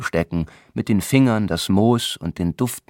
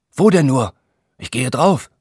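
higher, louder hammed-up panic; mock panic; 5 semitones higher, 5 dB louder than usual. Dionysos panics in the recital, hammed-up fear. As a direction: cry out as if doomed. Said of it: "sprach in unterschiedlichen Stimmlagen".

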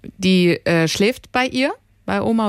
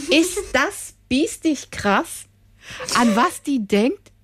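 amazed; 4 semitones higher, much slower than usual. Real, not acted. Amazed laughing comment.

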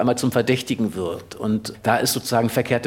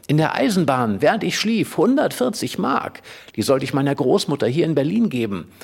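excited telling; 4 semitones higher than usual. Acted. Emil proudly tells of the theft.

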